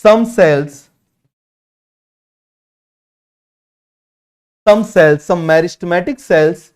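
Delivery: very slow, word by word for note taking; slow dictation. Shown as a demonstration. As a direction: spell it out slowly so students can write. Teacher dictates notes slowly.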